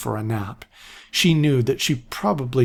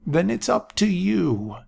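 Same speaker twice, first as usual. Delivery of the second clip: put-on higher, grave old man; sober old seer; 7 semitones higher than usual. A narrator's reading. Aaron charging Jennifer, sober old voice. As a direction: hand her the burden soberly. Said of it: "His voice again seemed sober".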